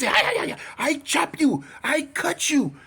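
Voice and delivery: high, accented mock threats; imitated sword attacker. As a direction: yelp like a comic swordsman in a put-on accent. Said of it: "he going like this".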